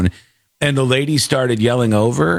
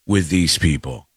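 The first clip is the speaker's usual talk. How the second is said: mock war cry; 5 semitones lower, slower than usual. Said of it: "I go".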